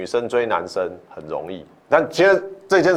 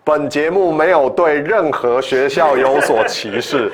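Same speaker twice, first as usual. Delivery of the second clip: slow, formal disclaimer read; 5 semitones higher, 4 dB louder, slower than usual. Shown as a demonstration. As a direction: announce it like a formal notice. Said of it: "先讲警语，".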